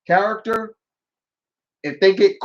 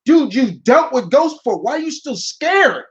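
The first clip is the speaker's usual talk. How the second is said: high, incredulous mock scolding; exasperated disbelief; 4 semitones higher than usual. Gamer scolding Luigi for being scared, exasperated disbelief. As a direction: question him with rising exasperation.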